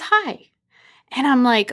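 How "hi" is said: very high-pitched little hi; chirpy greeting. Retold or imitated. Husband leans over to strangers at the pool, chirpy. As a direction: imitate an overly friendly high greeting.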